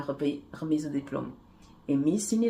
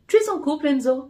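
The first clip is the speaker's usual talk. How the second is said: higher, louder questioning woman; 8 semitones higher, 7 dB louder than usual. A narrator's reading. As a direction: probe him with a lifted question. Miss Univers questions him.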